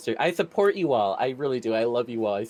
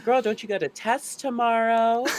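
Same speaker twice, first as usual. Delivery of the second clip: much higher, laughing sassy voice; high-pitched mock voice; 10 semitones higher than usual. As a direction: squeal it like a nagging friend.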